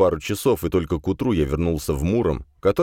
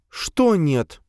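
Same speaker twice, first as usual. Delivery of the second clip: raised pitch female voice; female character voice; 11 semitones higher than usual. A narrator's reading. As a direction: voice Sofia higher. Sofia voiced.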